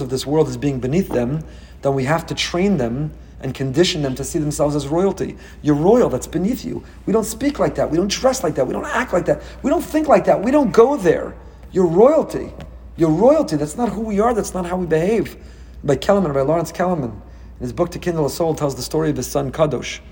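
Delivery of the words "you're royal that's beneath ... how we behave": a lightly voiced parent, higher and firm; parent to child. Parent reminding a child they are royal, firm. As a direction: lay down the family rules to a child.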